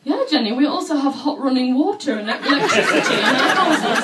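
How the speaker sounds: deadpan sarcastic reply; dry sarcasm. Retold or imitated. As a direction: coworker mocks the naive foreigner. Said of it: "he was like".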